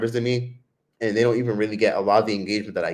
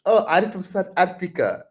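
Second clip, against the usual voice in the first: put-on pitched up with an Indian accent; imitated Indian accent; 8 semitones higher than usual. Answering a vendor, imitated Indian accent. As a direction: pretend to be South African in Tyler's Indian accent. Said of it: "trying to talk like Tyler ... Indian accent".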